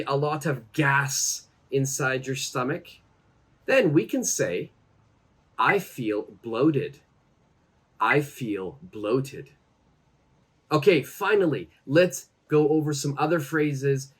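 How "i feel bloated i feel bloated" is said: spaced-out, slow language-lesson example; slow model phrase. Shown as a demonstration. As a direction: model it slowly, word by word. Teacher models phrase for learners.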